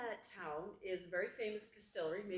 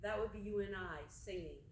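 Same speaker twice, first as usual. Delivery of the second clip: measured poem recital with long pauses; poetry reading. Acted. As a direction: read it as verse, phrase by phrase. Reads second poem aloud.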